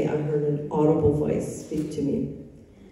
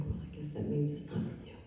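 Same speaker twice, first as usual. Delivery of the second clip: quiet admission; 12 dB quieter than usual. Retold or imitated. Sheepish admission to God.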